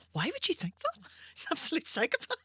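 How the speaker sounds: high, laughing, almost crying with laughter. Real, not acted. Mocking her teenage self, weeping with laughter. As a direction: laugh till it hurts.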